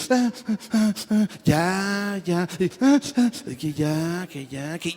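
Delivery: mock sobbing gasps that slow into a laugh; imitated sobbing. Man retelling his sobs in the brother's arms, imitated crying. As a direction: act out your own sobs, half laughing.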